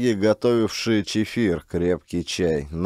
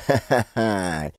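ingratiating laugh; slower than usual. Acted. Thugs excusing themselves to Klin, sheepish laugh. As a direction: laugh it off before the boss.

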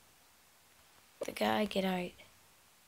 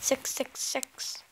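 slow hushed whisper; whispering while hiding; 6 dB quieter, slower than usual. Real, not acted. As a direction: breathe it slowly under your breath. Hiding, reading name.

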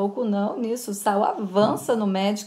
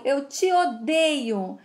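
slow repeat; 3 semitones higher, much slower than usual. Acted. Boy repeats his hatred.

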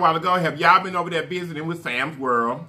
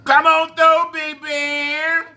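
calling out; 10 semitones higher, 4 dB louder, much slower than usual. Real, not acted. Calling someone into frame.

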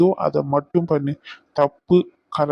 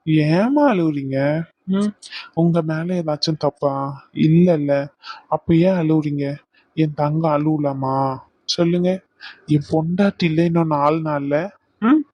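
tender soothing. Acted. Comforting her, slowed.

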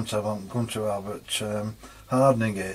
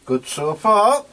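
excited relief; 7 semitones higher than usual. Real, not acted. Relief after quenching hot steel.

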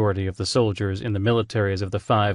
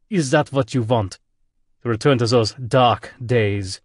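German admiral booming, louder; 2 semitones higher, 3 dB louder than usual. Acted. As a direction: boom it over the speakers, reproachful. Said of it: "voice boomed over the speakers".

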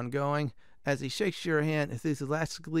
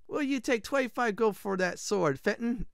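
higher mock-Italian trader; bad Italian accent; 5 semitones higher than usual. Blacksmith bidding for a sword, bad Italian accent. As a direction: haggle in a put-on Italian accent. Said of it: "this is gonna be very bad Italian accent".

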